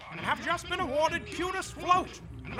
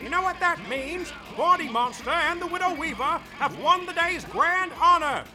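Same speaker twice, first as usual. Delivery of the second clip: grand announcement; 3 semitones higher, 3 dB louder than usual. Acted. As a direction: announce it like a pageant host. Announcer declaring the winner.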